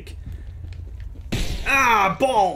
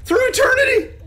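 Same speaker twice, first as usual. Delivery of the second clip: laughing shout; 13 semitones higher than usual. Real, not acted. Laughing while spinning in game.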